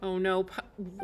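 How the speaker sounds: ordinary talk, nothing marked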